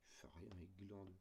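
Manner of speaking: a quick conspiratorial whisper; whispered teasing aside. Real, not acted. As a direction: whisper it as a joke. Joking aside about a digit.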